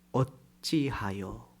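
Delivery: slow, low, soft drawn-out sigh of a question; sighing lament. Acted. Joshua sighing to God, drawn out and soft. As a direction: breathe it out slowly like a broken man. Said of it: "탄식".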